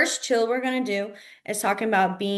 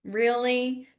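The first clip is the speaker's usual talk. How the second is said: dry sarcastic really; mock-sarcastic really; 2 semitones higher than usual. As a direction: say it like you don't believe them. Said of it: "sarcastic and being like".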